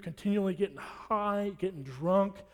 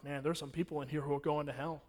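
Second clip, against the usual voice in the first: quiet inner thought; 4 semitones lower, 7 dB quieter than usual. Retold or imitated. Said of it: "I've never said that before like that".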